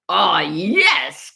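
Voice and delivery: gleeful fox exclamation; crying out. Acted. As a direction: relish it as the triumphant fox. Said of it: "cried the fox".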